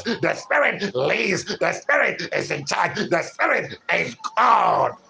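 rhythmic, driving sermon refrain; preaching. Acted. Preacher telling the congregation the spirit is God, fervent preaching. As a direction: punch each phrase and stretch its last word.

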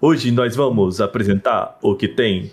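slow, stiff presenter delivery; measured corporate announcement, slowly; slow formal cadence. Retold or imitated. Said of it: "É que eles falavam nessa cadência".

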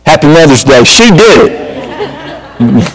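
jokey mock blame, laughing at the end; mock Adam blaming. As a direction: play Adam pointing the finger, half laughing. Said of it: "Adam kind of hilariously goes".

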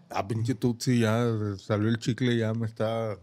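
talking around a lollipop in the mouth; words blurred by candy in the mouth. Real, not acted. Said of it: "No se te entiende nada cuando hables".

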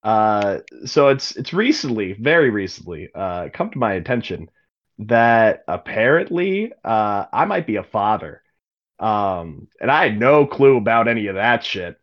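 a hint of a gruff father in a magic letter; casual father's voice, building to a swearing outburst; lightly voiced absent father. Father's voice in a magic letter to his daughter, lightly voiced. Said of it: "In the voice?".

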